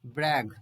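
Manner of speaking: ब्रैग with a hard g at the end, not j. Shown as a demonstration. Teacher to students, ब्रैग with a hard final g. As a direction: end ब्रैग on a clear g sound. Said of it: "ज नहीं बोलेंगे".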